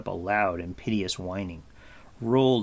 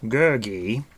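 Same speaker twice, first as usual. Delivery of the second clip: firm, louder call of his name; 7 dB louder than usual. A narrator's reading. Gwydion calling Gurgi to order, firm. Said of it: "said Gwydion firmly".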